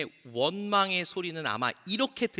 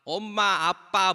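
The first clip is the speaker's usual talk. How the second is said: lightly voiced toddler words; a hint of cutesy baby talk; imitating a toddler; 3 dB louder, much slower than usual. Toddler just learning to say mommy and daddy, childlike. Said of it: "귀여운 척 하는 거 아니에요".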